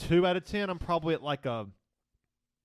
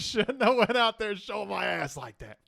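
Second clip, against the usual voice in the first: laughing through the words, slowed; giggling while repeating it; 6 semitones higher, slower than usual. Real, not acted. Echoing friend while laughing.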